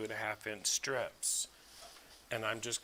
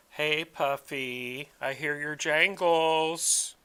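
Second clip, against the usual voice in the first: high pet voice; 5 semitones higher, 6 dB louder, slower than usual. Real, not acted. Calling the dog over.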